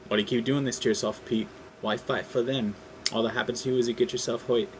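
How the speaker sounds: Vulture taunting in a lightly put-on accent. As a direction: sneer it out with a hint of a foreign accent. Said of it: "Sorry about the accent".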